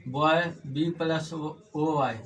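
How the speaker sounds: ordinary talk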